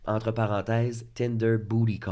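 stuffy blocked nose; talking through a stuffed-up nose; nasal voice. Real, not acted. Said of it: "Et je parle du nez".

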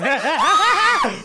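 high, loud, slow laughing scream. Real, not acted. Reacting to the Chaumière shout-out with a laughing scream. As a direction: let the scream rip through a laugh. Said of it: "I didn't scream like that".

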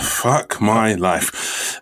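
slow sigh of despair; weary groan. Real, not acted. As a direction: drag it out, fed up.

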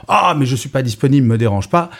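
slightly irritated brush-off; un peu énervé. Shown as a demonstration. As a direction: sound a bit annoyed and impatient. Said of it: "dire un peu énervé". (un peu agacé)

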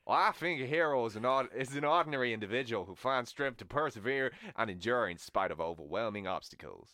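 mock Southern American speechifying; Southern American accent. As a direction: put on a broad Southern US voice. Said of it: "Southern American".

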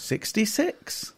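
slow, drawn-out bingo number call; bingo caller. Acted. Answering clickety clicks bingo call.

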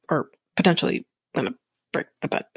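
fast, breathy whisper aside. Real, not acted. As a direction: tack it on in a whisper.

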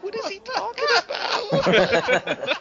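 high, very slow baffled disbelief. Retold or imitated. Watching a prisoner on TV, high slow baffled disbelief. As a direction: drag it out in stunned confusion. His own baffled reaction.

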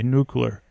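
Nuclear turned into "nucular"; mispronounced nuclear. Acted. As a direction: echo the other pronunciation, Nuclear as "NOO-kyuh-ler". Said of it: "I didn't know you pronounced it that way".

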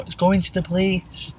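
exaggerated silent-style mouthing, slightly high; mimed through a window. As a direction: mouth it big through the glass. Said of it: "and I'll mime, like, through the window".

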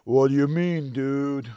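Michelangelo. Acted. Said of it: "take two on the Michelangelo".

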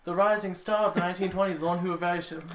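high, grand showman announcer; dramatic announcer voice. Pretend. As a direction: announce her like a stage legend. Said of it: "I just wanted to hear the voice again".

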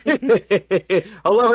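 very slow, loud, high stretched hello; drawn-out hello. Real, not acted. Co-host greeting the live chat, stretched and loud.

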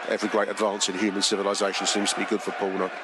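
ordinary delivery

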